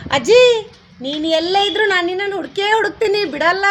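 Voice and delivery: put-on loud, eager delivery of the line to the child; eager line demo. Shown as a demonstration. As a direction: call out to grandma with cheerful resolve. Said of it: "practice ಮಾಡು". (ಅಜ್ಜಿಯನ್ನು ಕರೆಯುವ ಉತ್ಸಾಹದ, ಜೋರಾದ ಧ್ವನಿ)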